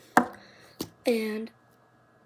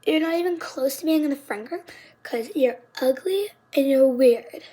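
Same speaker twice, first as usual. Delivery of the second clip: retold scream; 2 semitones higher, 4 dB louder than usual. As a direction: imitate a schoolyard screamer, building louder at the end. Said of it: "Like, screaming this".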